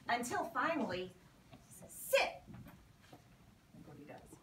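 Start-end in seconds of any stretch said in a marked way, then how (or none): 1.9-2.4 high, loud command to a dog. Retold or imitated. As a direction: bark the order like training a puppy.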